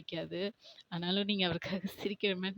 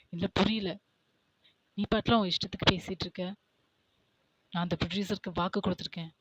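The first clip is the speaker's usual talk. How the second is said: louder, scolding father; angry father; 5 dB louder than usual. Acted. Father scolding Jimin on set, louder angry rant. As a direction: berate the son for breaking a promise. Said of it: "அவங்க அப்பா சைடுல கத்திட்டு இருக்காரு".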